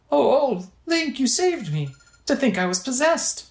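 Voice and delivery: acted worried game character; Impa, shaken and earnest. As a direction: plead with the hero, dramatic and grave. Voices Impa after possession.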